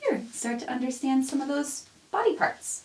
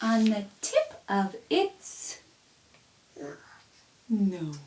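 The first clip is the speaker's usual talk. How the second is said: tender reading; 3 semitones higher, slower than usual. Acted. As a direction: read it lovingly to your own baby. Softer tender verse.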